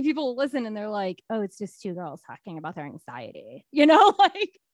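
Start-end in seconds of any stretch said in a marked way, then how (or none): 1.3-4.6 put-on valley girl. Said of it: "Bringing that Valley Girl accent in".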